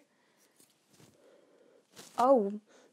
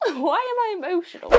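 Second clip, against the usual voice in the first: laughing at herself; 9 semitones higher, 3 dB louder, faster than usual. Real, not acted. Moved by a gift box, laughing at herself. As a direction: laugh through "Why am I emotional?", a little higher.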